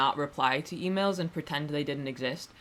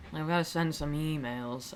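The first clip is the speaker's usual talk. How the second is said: nervous; 5 dB quieter than usual. Shown as a demonstration. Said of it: "I seem nervous".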